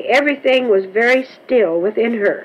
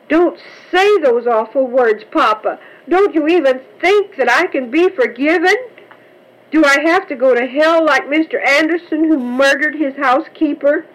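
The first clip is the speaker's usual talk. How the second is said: a lightly voiced girl begging not to be called a thief; pleading child; 5 semitones higher than usual. A narrator's reading. Button begging her father for forgiveness, mildly pleading girl. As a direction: plead with him, small and anxious.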